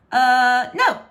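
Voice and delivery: high, loud feigned innocence; innocent denial. A narrator's reading. Princess lying to her father, mock innocent. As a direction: play it wide-eyed innocent. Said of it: "said Francesca with innocent eyes".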